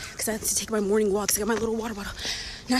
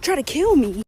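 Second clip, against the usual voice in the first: out of breath; 6 semitones higher, 3 dB louder than usual. Real, not acted. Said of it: "I'm out of breath because I was running".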